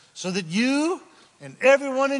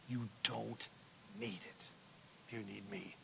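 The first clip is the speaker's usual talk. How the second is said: much softer, tender words from God; God's soft voice; 10 semitones lower, 19 dB quieter than usual. Acted. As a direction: speak as God, very quietly. Voicing God, softly.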